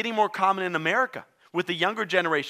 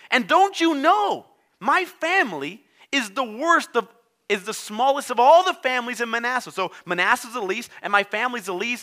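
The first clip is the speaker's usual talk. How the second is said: higher, louder, slowing whine of self-pity; self-pitying Gideon; 5 semitones higher, 4 dB louder than usual. Acted. Preacher voicing Gideon whining about his small family. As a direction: moan that you are nobody.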